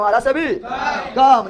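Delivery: आधा से भी कम drawn out at half speed; slow repeat. Shown as a demonstration. Teacher repeating for the class, very slow. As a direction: stretch each word of आधा से भी कम so it can be written down. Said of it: "धीरे धीरे बोल को सुनने ले".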